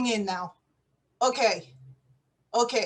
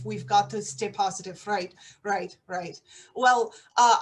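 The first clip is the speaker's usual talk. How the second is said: a lightly voiced Russian spy, hushed and low; low, hushed secret agent on the line; spy's phone report; 6 semitones lower, 4 dB quieter than usual. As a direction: report in quietly like an undercover agent.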